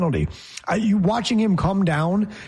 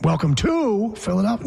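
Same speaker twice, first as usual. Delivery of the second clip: "Welcome to Philadelphia." pitched higher, stress on "to"; wrong delivery; 4 semitones higher than usual. Shown as a demonstration. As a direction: lift the whole phrase up and push "to". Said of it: "it's not".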